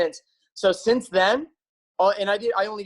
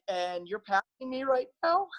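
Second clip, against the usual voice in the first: higher, incredulous retold question; mock amazement, pitched up; jaw-dropped disbelief; 4 semitones higher, 4 dB quieter than usual. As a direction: imitate a stunned runner being overtaken. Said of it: "their jaw would drop".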